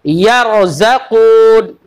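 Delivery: यरज़क़ून recited slowly with a full, heavy ra; heavy ra recitation. Shown as a demonstration. Teacher to children, recites a Quran word slowly. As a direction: draw out यरज़क़ून slowly, ra thick. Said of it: "हमने कहा".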